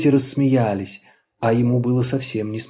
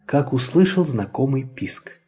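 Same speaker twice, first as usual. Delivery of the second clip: usual speaking voice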